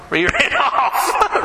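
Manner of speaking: laughing through the words, slow and high. Real, not acted. Pastor laughing to the congregation about Moses fleeing. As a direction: crack up as you tell it.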